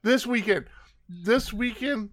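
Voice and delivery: talking while thumping the desk; banging the desk. Real, not acted. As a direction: pound the desk as you speak. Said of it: "Will you stop hitting the desk?".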